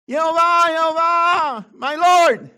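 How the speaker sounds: high, loud shouted praise. Acted. Leading the congregation in a shout to God, loud. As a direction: cry the name out to heaven. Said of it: "The voice shouted".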